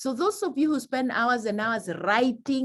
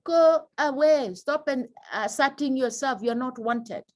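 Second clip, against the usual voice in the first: mock go away; 3 semitones higher than usual. Shown as a demonstration. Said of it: "my body language is telling you".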